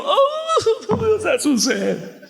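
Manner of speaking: high, bursting with joy and laughter; joyful outburst. Retold or imitated. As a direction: break out singing in delight. Singing along joyfully in worship.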